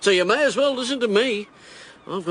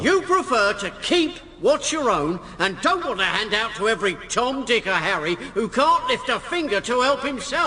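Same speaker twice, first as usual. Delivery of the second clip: raised, projecting political oratory; rally speech; 3 semitones higher than usual. Acted. Candidate addressing the Conservative rally, rousing. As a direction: work the crowd from the platform.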